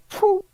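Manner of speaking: high airy "phew"; imitated whoosh. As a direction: mimic something flying off with a quick high puff. Imitating the hammer head flying off.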